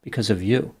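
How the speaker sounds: emphasis landing on "you" at the end; stress on YOU. A narrator's reading. Narrator reads the chatbot's message with "you" in capitals, stressed. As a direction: lean on the final word "you". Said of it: "She typed you in all capitals".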